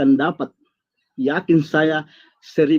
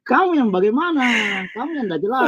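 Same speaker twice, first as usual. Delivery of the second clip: indignant retort; 6 semitones higher than usual. Real, not acted. Throwing accusation back in quarrel.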